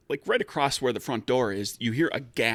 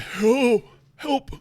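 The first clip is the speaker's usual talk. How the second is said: high, loud cry for help; desperate plea; 7 dB louder than usual. Acted. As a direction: cry out high like an injured victim. Beaten man collapses, begging for help.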